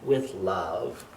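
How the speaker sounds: lilting sing-song verse reading; rhyming read-aloud. A narrator's reading. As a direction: read it like a bedtime rhyme.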